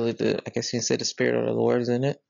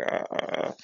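soft retold groan of annoyance; quiet, voiceless eye-roll 'uh'; eye-rolling exasperation; 5 dB quieter than usual. Seeing them park right next to us, exasperated. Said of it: "rolling my eyes".

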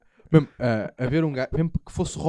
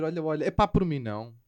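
suggestive, soft tone; 7 dB quieter than usual. Shown as a demonstration. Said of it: "tá-te logo a dizer".

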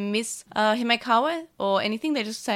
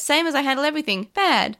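similar voice to Mimi; 5 semitones higher, 4 dB louder than usual. Retold or imitated. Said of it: "someone replies".

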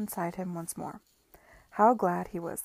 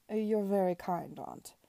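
mechanical; slower than usual. Acted. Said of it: "said Sir Edward mechanically".

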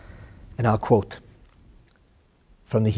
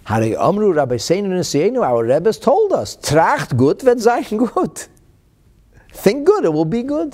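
loud, high, drawn-out proclamation; emphatic retort; 10 semitones higher, 9 dB louder than usual. Retold or imitated. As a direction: proclaim the teaching at full voice, slowly. Rebbe's emphatic reply, acted out.

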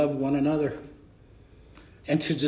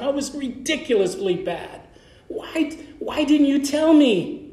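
exasperated plea; 5 semitones higher than usual. Retold or imitated. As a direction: ask why nobody warned you. Pleading question to his mentor.

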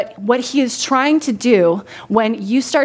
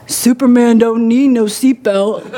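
slow, louder boxer's swagger voice, "Superman don't need no seatbelt"; Muhammad Ali impression; 4 dB louder than usual. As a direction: drawl it out like a cocky champ. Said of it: "I'm gonna say this in the best way I can".

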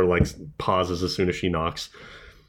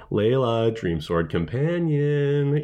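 calling out; 4 semitones higher, slower than usual. Retold or imitated. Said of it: "after you hear Betsy with the".

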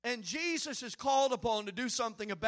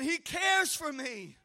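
He cares for me, slower and shouted; louder repeat; 3 semitones higher, slower than usual. Shown as a demonstration. Preacher leading the church's second response, louder. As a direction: call it back stronger. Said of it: "Say it again".

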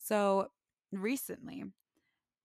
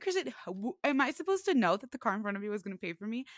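exasperated retort; 3 semitones higher, 5 dB louder, faster than usual. Retold or imitated. Retorting to brother.

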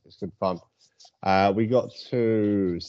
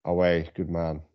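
put-on Geordie accent; 3 semitones lower than usual. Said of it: "my Toon accent leaves a lot to be desired".

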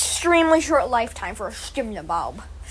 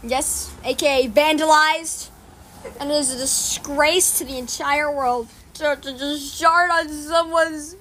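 news anchor. Acted. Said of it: "three, two, one, action".

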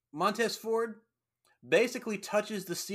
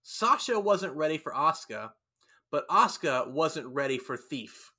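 mild imitation of a Japanese accent; lightly retold Japanese accent, leaning on Asuka; imitating a Japanese accent; 4 dB louder than usual. Retelling Asuka's promo to the co-host, lightly imitating her Japanese accent. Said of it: "strong Japanese accent".

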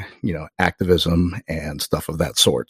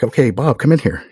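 calling out; 6 semitones higher, 5 dB louder than usual. Retold or imitated. Boss calling colleague into interview.

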